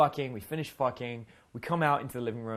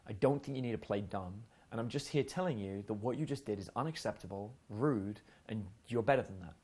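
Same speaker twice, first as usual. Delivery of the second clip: disappointed dad; 4 dB quieter than usual. Retold or imitated. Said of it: "treating her like I'm her dad".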